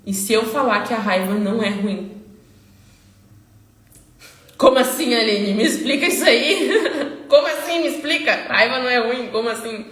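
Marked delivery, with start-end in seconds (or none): 4.6-9.8 puzzled follower. Pretend. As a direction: play the baffled viewer, half laughing. Imagined follower questioning her.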